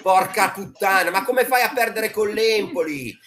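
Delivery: loud exasperated outburst; explosive italian cursing. Real, not acted. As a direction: swear it out in frustration. Heated football argument, cursing.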